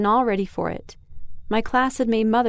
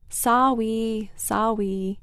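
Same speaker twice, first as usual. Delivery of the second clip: put-on toddler apology; much slower than usual. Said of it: "Patrick said again".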